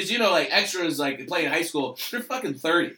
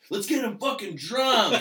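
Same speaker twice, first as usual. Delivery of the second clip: slow, higher, louder mock thug; drawn-out threat from a cartel heavy; playful imitation of a cartel boss; menacing cartel guy; 9 semitones higher, 5 dB louder than usual. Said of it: "and he just goes".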